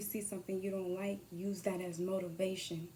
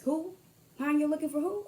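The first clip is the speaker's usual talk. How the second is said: rude phone voice; 5 semitones higher, 4 dB louder than usual. Pretend.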